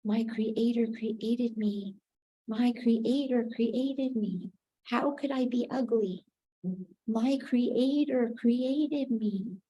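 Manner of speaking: "My creator created me" slow, each word laid down deliberately; slow repeated affirmation. Shown as a demonstration. Teacher leading the class in the remedy, slow mantra-like repetition. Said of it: "the remedy for that is".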